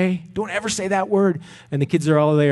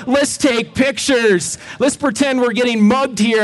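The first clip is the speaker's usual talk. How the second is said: put-on excited teens; 8 semitones higher, 3 dB louder than usual. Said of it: "And they're like".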